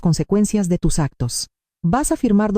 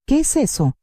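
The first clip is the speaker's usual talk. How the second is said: suspicious; 5 semitones higher than usual. Acted.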